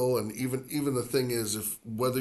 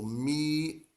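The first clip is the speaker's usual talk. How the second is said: miércoles split as mi, ER-co-les; stressed second syllable; 3 semitones higher than usual. Shown as a demonstration. Spanish teacher isolating the accented second syllable, stress on it. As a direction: pause after mi, then start ER afresh in miércoles. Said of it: "start of that second syllable".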